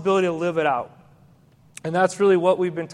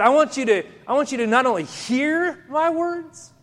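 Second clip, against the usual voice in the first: Jesus pressing his listeners, higher and urgent; voicing Jesus, raised; 5 semitones higher than usual. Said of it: "But he said, he said".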